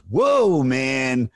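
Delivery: mildly imitated affronted rocker; offended singer. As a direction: a singer balking at the joke, lightly voiced. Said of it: "fucking Sebastian Bach goes".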